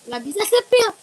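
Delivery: stuffy voice after sneezing; sneezy. Real, not acted. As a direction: talk through a sneezy nose. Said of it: "lagi bersin-bersin mulu nih".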